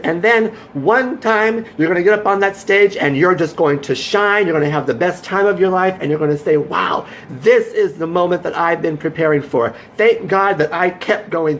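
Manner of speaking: high, building, inspired voice; rousing pep talk. Retold or imitated. Hyping her scared friend about his first stage night, high and excited. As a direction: lift him up, voice soaring.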